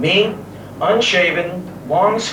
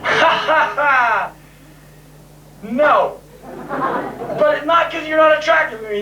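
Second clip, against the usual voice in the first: higher, forced ha ha ha; mock laugh; 9 semitones higher than usual. Turning the girl down with an awkward fake laugh. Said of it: "I'm like".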